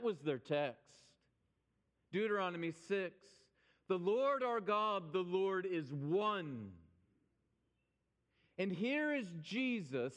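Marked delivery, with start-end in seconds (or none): 3.9-6.7 slow, emphatic proclamation of scripture; solemn scripture recitation. Retold or imitated. Preacher recites the Shema for his listeners, solemn and slow. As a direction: recite it slowly, each phrase given weight.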